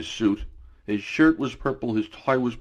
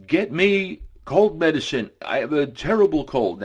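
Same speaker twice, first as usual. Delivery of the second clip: put-on higher, louder stuffy-nosed call with a British accent; congested British yelling; 6 semitones higher, 4 dB louder than usual. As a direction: call out like a congested Brit just off a flight. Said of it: "he was super congested".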